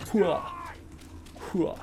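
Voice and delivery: "hua", a quick imitated effort sound; imitated lunge noise. Gamer showing viewers how the move pulls forward, imitated lunge noise. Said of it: "So it's like".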